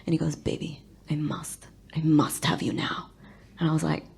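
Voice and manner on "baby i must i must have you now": slow whispered lust; mock lover's urgent whisper; breathy passion. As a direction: whisper it hungrily.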